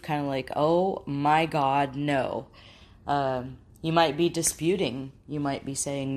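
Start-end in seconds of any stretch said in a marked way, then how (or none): 0.5-2.5 slow, drawn-out disbelief; a touch of stunned denial, stretched out; mild disbelief. Acted. Speaker voicing a grieving person's denial, mild disbelief. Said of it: "total sense of disbelief".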